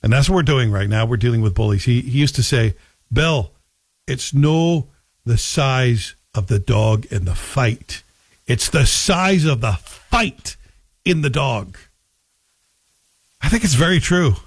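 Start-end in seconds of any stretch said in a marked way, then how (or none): 3.1-11.8 put-on lightly done Scottish accent, slow, "no" for not; a hint of a Scottish dad's voice, slow. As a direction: imitate dad's Scottish saying, slow and deliberate. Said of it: "said with a Scottish accent and told by my dad".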